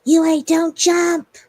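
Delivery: loud, drawn-out high yell; sister's yelling. Retold or imitated. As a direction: yell a slow desperate warning across a distance. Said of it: "her sister comes yelling at her name".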